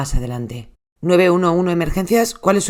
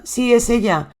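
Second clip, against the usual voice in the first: panicked plea; 6 semitones higher, slower than usual. Retold or imitated. Husband begging the 911 operator, frantic. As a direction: voice raised, frantic and pleading.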